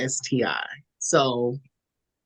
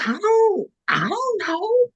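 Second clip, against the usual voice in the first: high, slow, near-crying whine; whiny panic; slower than usual. Retold or imitated. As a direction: whimper it out like you're about to cry. Panicked self on phone.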